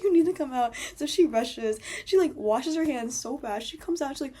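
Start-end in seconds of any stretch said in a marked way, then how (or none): 0.0-0.7 higher, louder retold urgent call. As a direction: call it out urgently, re-enacting the moment. Yelling through door to friend.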